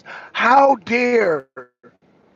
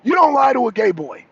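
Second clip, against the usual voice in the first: mild mock yell; 4 semitones higher than usual. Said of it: "by telling them".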